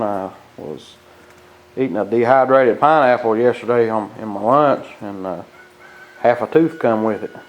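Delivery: talking with a numb mouth after the dentist. Real, not acted. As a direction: speak as if half your face is numb from anesthesia. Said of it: "Half my face is numb".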